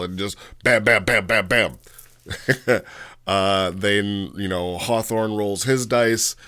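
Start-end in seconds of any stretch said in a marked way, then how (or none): 0.6-1.8 punchy, evenly spaced bam sounds; rapid-fire vocal hits, each one punched; imitated gunfire. Narrator acting out a free kill, punchy imitated hits.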